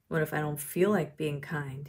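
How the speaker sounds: mild scowling. Acted. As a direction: lightly play a reluctant, scowling boy. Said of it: "David scowled".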